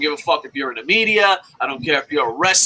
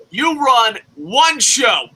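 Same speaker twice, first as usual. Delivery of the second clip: slow shout; 5 semitones higher, 3 dB louder, much slower than usual. Real, not acted.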